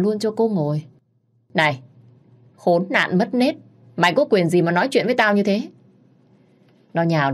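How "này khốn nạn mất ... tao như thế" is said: furious insult. Acted. Woman insults narrator furiously.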